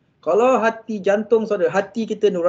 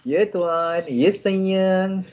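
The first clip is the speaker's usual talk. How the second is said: soft reply; 2 semitones higher, much slower than usual. Shown as a demonstration. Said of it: "Lagi power lembut".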